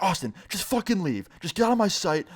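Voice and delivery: imitating the boss throwing him out; angry boss. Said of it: "he gets all angry".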